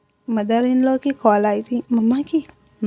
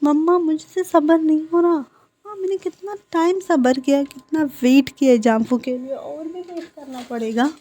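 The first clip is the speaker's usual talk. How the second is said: impatient whine; 5 semitones higher than usual. Acted. Wing impatient with mother.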